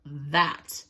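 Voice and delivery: slow, low-ish gloating crocodile; slow greedy crocodile. Acted. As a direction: savour each word like a meal. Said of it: "she thought".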